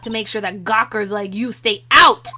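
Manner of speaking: lightly faked crotchety old lady, punching the ends. Old security lady warns gawkers to stay out, half-faked old voice. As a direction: attempt an old lady guard, loud and bossy. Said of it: "I can't do an old lady voice".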